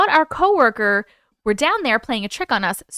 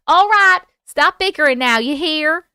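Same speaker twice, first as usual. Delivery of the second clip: mock scolding; 3 semitones higher, 6 dB louder than usual. Scolding chat.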